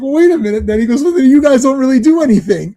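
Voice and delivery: imitating a dawning realization, high and loud; Terry. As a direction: protest as if just let down by the truth. Retold Terry realizing actors fake everything.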